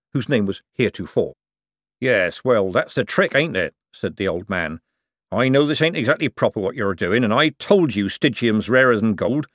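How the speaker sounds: lightly voiced old craftsman, rough and sly; a canny old seamer talking shop; old forger. Old forger lecturing the young buyer, sly.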